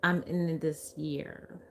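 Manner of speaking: drowsy, slightly slurred speech; talking funny, still half-sedated; groggy from anesthesia. Real, not acted. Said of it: "I'm talking real funny, aren't I?".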